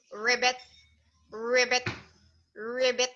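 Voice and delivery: spaced-out imitated frog croaks; three separate ribbits, evenly paced. Shown as a demonstration. Teacher showing a child the frog's sound, ribbiting. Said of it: "The frog says".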